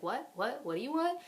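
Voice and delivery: put-on high, whiny kid snapping back; mimicking her son. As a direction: play the annoyed kid who finally hears. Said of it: "and then he's like".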